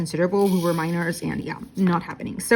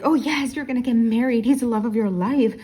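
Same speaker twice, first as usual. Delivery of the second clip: higher-pitched imitation of gushing to a friend; mock-dreamy, raised-pitch encouragement; gushing teen friend; 5 semitones higher, 3 dB louder than usual. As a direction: gush as your younger self cheering on a crush. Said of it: "at the moment I was like".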